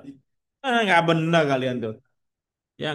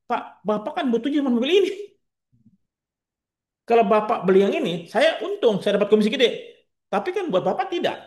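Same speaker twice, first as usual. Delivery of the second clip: higher, earnest salesman pitch to a customer; honest salesman; 5 semitones higher than usual. Acted. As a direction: talk the customer round, sincerely. Role-plays an honest salesman advising.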